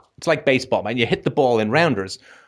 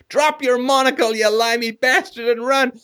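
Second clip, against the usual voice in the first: higher, lightly voiced jeering classmates; mock taunting kids; 13 semitones higher than usual. Canadian kids mocking the English batter, lightly hammed jeer. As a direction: tease the posh English kid, mock jeering.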